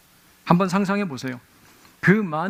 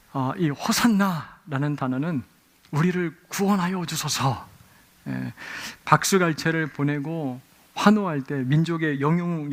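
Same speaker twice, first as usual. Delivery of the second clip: usual speaking voice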